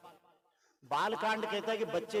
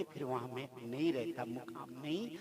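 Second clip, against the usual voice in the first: quiet divine voice; 6 semitones lower, 6 dB quieter than usual. Acted. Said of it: "तो भगवान कहते".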